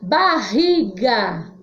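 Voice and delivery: "Barriga" drawn out, RR like H; strong R. Shown as a demonstration. Teacher gives an example word, slow "Barriga" with strong h-like RR. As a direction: slowly sound out "Barriga" with a breathy h for RR. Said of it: "som forte".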